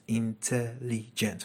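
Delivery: teacher counting syllables in intelligent; slowed syllables. Shown as a demonstration. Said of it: "four syllables".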